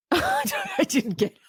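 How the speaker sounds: high, slow laughing I didn't get it; laughing sigh. Real, not acted. Host admitting confusion about the ending, laughing sigh.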